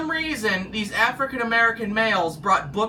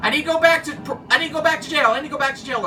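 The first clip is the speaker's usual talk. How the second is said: parolee voice; 6 semitones higher, much faster than usual. Retold or imitated. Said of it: "they'd say to".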